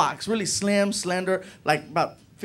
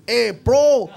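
ghetto buddy; 7 semitones higher, 5 dB louder, slower than usual. Retold or imitated. Martin being ghetto.

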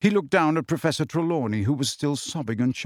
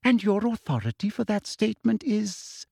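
Umbridge challenging; 7 semitones higher than usual. A narrator's reading.

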